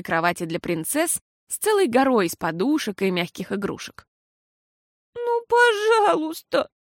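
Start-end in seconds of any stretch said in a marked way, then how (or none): 5.1-6.7 slow, high whimpering please; a touch of tearful begging; whiny plea. A narrator's reading. Girl begs Pippa, slow high whimper. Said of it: "заплакала Фиасоль".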